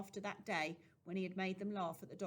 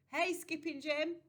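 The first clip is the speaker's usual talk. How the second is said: loud, higher street call; 9 semitones higher, 7 dB louder than usual. A narrator's reading. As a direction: boys hailing a friend. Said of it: "they shouted".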